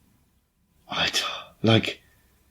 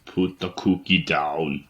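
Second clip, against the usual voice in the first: Cookie Monster voice; 5 semitones lower, slower than usual. Retold or imitated. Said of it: "that Cookie Monster voice".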